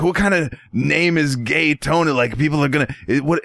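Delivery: a high voice asking if that's a real name; guy's incredulous voice. Retold or imitated. The customer mocking the mobster's name, high and incredulous. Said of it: "I'm doing his voice".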